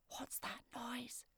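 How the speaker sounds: slow frightened whisper. A narrator's reading. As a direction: whisper it, afraid to be heard. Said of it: "she whispered".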